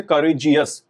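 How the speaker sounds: करेजियस in separate beats, ka-re-jiyas; syllable by syllable. Shown as a demonstration. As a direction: sound out करेजियस in parts, ka, re, jiyas. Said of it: "जिनमें एक से ज्यादा syllables".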